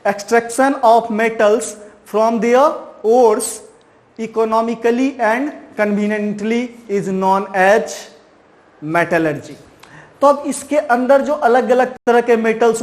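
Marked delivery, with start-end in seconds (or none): 0.1-9.5 very slow, word by word, for note-taking; slow dictation. Shown as a demonstration. Teacher dictating a definition to students, very slow. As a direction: dictate each word so students can write it down. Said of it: "ये definition आप लिख लोगे".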